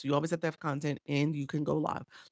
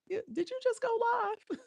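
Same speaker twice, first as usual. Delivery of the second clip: excited. Real, not acted. Excited question to a viewer.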